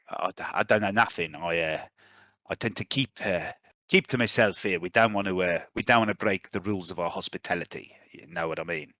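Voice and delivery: lightly voiced cagey mercenary, a little low; guarded mercenary. Mercenary dodges questions about stragglers, lightly voiced and guarded. Game master voices Trek.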